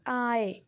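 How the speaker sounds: "आई" sounded alone, gliding from a to i; diphthong sound demo. Shown as a demonstration. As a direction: model "आई" as one isolated gliding vowel. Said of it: "आई के sound दे रहे हैं".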